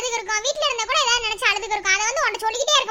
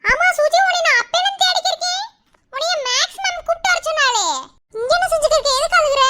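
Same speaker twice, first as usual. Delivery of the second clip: calling out; 4 semitones higher, 4 dB louder than usual. Acted. Arrives calling and questioning Suji.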